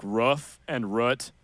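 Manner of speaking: "roof" and "root" with a short u as in "book"; Minnesota vowels. Shown as a demonstration. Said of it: "I say".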